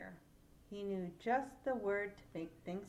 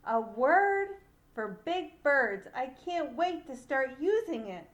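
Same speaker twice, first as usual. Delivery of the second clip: eager; 4 semitones higher, 8 dB louder than usual. Acted. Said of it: "Little Bird's thought".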